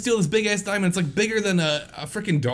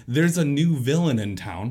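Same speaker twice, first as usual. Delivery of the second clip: drawn-out, dry quote of the film line; slow, flat-faced movie-line mockery; 4 semitones lower, slower than usual. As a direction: read it slowly like a cheesy movie cop. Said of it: "He literally says the line".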